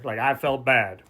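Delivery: "I felt bad" whispered, half mocking; whispered aside. Shown as a demonstration. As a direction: whisper "I felt bad" like you don't mean it. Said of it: "But I didn't feel bad".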